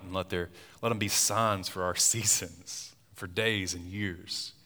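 measured Bible reading aloud; scripture reading. Acted. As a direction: read the passage with weight. Reads Genesis aloud.

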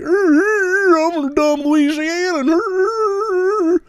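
very high, slow, squealing hick noises; dumb Louisiana hick caricature. Retold or imitated. Mocking movie stereotypes of Southerners, high dim-witted caricature. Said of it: "anti-Southern propaganda from fucking Forrest Gump to Waterboy".

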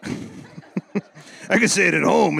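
slow, words broken by chuckles; laughing. Real, not acted. Preacher joking about cussing at home, laughing. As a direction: speak through a real laugh.

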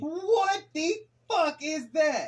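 high, slow shocked outburst; stunned, dragging each word out. Real, not acted. Reacting to a shocking video.

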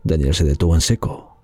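measured storyteller reading; story narration. A narrator's reading. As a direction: read it like a bedtime tale. Narra cuento de terror. (narración de cuento)

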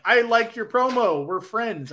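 sarcastic. Retold or imitated. Co-host imitating a wrestler praising his rival's promo, sarcastic. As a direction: imitate his sarcastic friendliness, stretching the opening words. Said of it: "I think he was being sarcastic".

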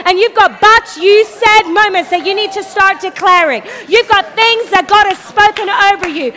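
fiery preacher hammering home the promise; full force preaching. Acted. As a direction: preach it hard, calling the whole room to stand.

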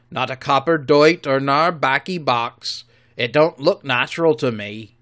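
a suspicious seaman muttering over bones; loud gruff pirate voice; rough pirate. Acted. Merry searching bones.

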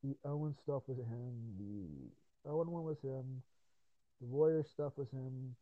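slow, deliberate listing; slow recalling. Real, not acted. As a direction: drag each item out. Slowly recalling episodes.

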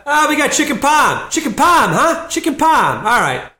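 very high, loud Boston deli man; Boston accent. Retold or imitated. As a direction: yell back the order in broad Boston. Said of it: "Just love the accent".

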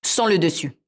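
a short, dry answer from the cat; curt. Acted. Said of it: "répondit sèchement le chat".

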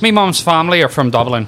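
lightly mock Irish accent; put-on Irish accent. Claiming Dublin family in a put-on Irish accent. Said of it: "You know I am Irish".

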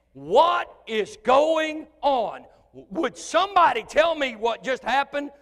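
high, loud, slowed astonishment; bewildered skeptic shouting questions; stunned unbeliever. Retold or imitated. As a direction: blurt out total bafflement. Unbeliever reacting to miracle.

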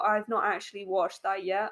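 talking round a pen; pen held in mouth. Real, not acted. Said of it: "Got a pen in my mouth".

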